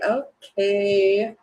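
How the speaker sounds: mock blushing reply through laughter; flattered, half-laughing; blushy. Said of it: "Maybe you get all blushy".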